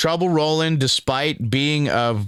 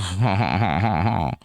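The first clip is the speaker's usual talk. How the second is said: creepy chuckle; 3 semitones lower than usual. Pretend. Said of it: "apologies for the creepy voice".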